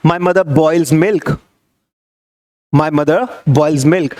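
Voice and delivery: very slow, word-by-word example; teacher's slow drill; slow model sentence. Shown as a demonstration. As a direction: say it slowly twice for repetition. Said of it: "बॉयल उबालना".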